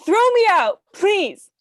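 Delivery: high, loud, breaking into sobs; sobbing outburst. Acted. Irina begging her sisters through sobs, loud and high. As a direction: cry it out, begging through tears. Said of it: "Irina sobs loudly".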